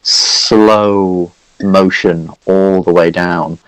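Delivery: slowed, drawn-out narration; slow dramatic narration. Acted. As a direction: draw it out slowly for suspense. Game master scene setting.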